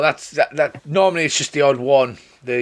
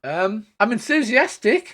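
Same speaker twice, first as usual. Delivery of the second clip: higher, slow and hesitant; shy girl, higher and slow; halfling girl; 10 semitones higher than usual. Acted. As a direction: admit it sheepishly. Scylla answers.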